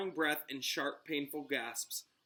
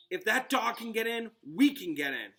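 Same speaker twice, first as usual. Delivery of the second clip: panted; 7 semitones higher, 5 dB louder than usual. A narrator's reading. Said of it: "Harry panted".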